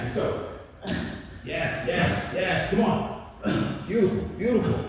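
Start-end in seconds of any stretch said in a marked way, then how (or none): 1.4-4.8 excited cheering. Real, not acted. Coach cheering a finishing rep.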